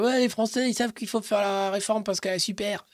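lisping the s in "Français" and "savent"; zozoteuse. Retold or imitated. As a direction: mimic her lisp on every s. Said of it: "C'est une zozoteuse". (imite son zozotement)

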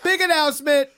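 mock Oprah. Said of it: "it sounds like you're working out".

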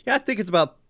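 stiff mechanical robot voice. Retold or imitated. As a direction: say it like a flat robot. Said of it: "Like a robot voice".

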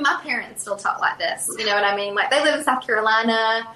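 light South Carolina twang; easy, conversational Southern accent. Shown as a demonstration. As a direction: slip into a Southern accent, like folks back home. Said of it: "there is that Southern accent".

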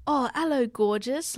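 put-on British accent, pitch lifted on the greeting; a playful stab at a British accent. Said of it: "I can't believe I just did that accent".

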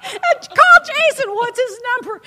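high, loud frantic demand; worked-up shriek, re-enacted; retold yelling. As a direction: replay shouting orders down the phone. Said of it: "Then I yell at the girl".

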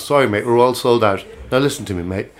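lightly put-on English accent; a mild attempt at an English accent. Coach station man apologising to a traveller, lightly put-on English accent. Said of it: "There's me doing an English accent".

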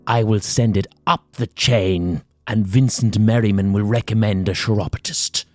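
mock boss talk, rising into laughter at the end; anxious laughter voice. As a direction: put on the strained professional-class voice. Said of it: "chance that with the barefoot accountant".

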